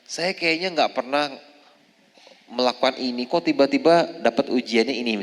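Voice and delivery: puzzled complaint. Retold or imitated.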